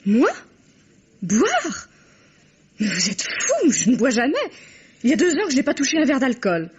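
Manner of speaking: laughing it off nervously; forced little laugh through the words. Acted. (rire nerveux et forcé)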